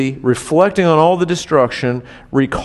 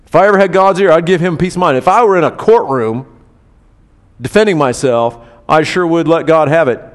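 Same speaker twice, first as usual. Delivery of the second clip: loud, defiant grumble; indignant boast; 4 dB louder than usual. Retold or imitated. Job boasting what he'd tell God, loud defiance. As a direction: bluster like a man spoiling for a fight. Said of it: "my paraphrase".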